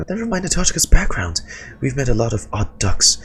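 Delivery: chirpy high little companion; bright squeaky fairy sidekick; high Paimon voice. Acted.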